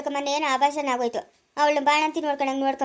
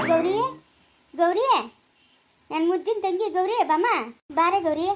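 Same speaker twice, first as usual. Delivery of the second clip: sugary call; 3 semitones higher, slower than usual. Acted. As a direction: call her like a darling sister, overdone. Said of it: "ಜೋರಾಗಿ ಬರ್ಬೇಕು".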